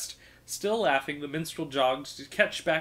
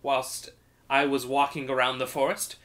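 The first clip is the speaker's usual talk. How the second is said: chatty minstrel; 3 semitones higher, 5 dB louder than usual. Acted. Minstrel rambling to a grumpy thief about clouds, sing-song. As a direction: ramble on like a delighted bard.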